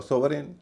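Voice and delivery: सोवरेन ending in a full "-rain"; expected wrong pronunciation. Shown as a demonstration. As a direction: say सोवरेन with a full last vowel, rising. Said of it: "आप कहेंगे". (सोवरेन, आख़िर में पूरा "रेन")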